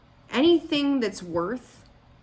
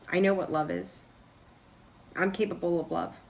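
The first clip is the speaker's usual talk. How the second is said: mildly condescending know-it-all act; mock condescension, firmly stated; 3 semitones lower than usual. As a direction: lightly imitate someone above being told. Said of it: "Very condescending energy".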